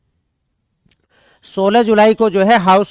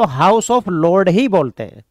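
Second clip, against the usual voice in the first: slow emphatic answer; much slower than usual. Shown as a demonstration. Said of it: "House of Lord को हिंदी में क्या बोलते हैं".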